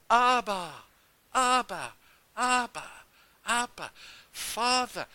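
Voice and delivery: high, loud, repeated cries; crying out. Retold or imitated. New believer calling to God as Father, crying out high. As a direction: call up to God, high and insistent. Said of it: "I was crying out to God".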